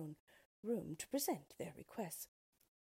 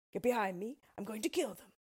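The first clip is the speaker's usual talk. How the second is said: higher, louder, determined voice; bold Tin Woodman; 4 semitones higher, 6 dB louder, faster than usual. A narrator's reading. Tin Woodman protecting friends from wolves, loud and bold. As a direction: step forward to defend them.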